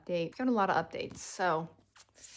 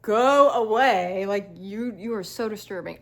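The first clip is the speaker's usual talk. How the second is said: mock shout; 5 dB louder than usual. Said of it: "was literally like".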